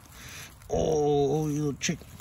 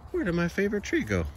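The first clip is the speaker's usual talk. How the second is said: voicing the cat; 11 semitones higher than usual. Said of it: "he'll probably walk up to it and be like".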